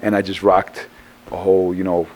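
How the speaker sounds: groggy and worn out; tired. Real, not acted. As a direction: speak like you're drained from the road. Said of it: "So I'm a little tired".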